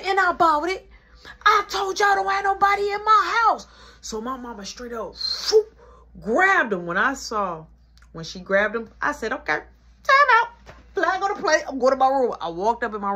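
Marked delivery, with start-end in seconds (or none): 0.0-3.7 angry scolding. Retold or imitated. Nana yelling at the kids. 9.3-12.3 mock referee call. Kid backing out of fight.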